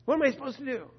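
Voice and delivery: a hint of a panicked plea; overwhelmed believer. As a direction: play someone boiling over with emotion.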